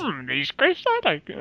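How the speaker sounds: half-hearted little alien sage; badly faked wise creature, tossed off; Yoda. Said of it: "Was it the Yoda voice?".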